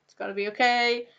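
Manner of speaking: hushed, comforting imagined friend; soft reassuring friend. Pretend. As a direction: softly reassure her it will be fine. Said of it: "who can say".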